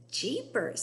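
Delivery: high, loud jeepers; a boy's amazed exclamation. Acted. Mike seeing the squirrels, amazed. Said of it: "said Mike T V".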